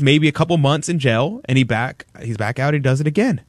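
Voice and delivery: ordinary talk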